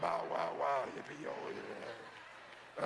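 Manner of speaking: mock dog yipping; playful dog voice. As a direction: bark out like a dog greeting its owner. Dog greeting imitated.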